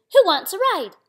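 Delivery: high, loud little-truck call; Blue's invitation. A narrator's reading. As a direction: call everyone aboard brightly. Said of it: "said Blue".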